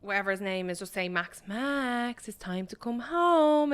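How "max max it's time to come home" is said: gentle angel calling. Retold or imitated. Angel calls dog home in retold film.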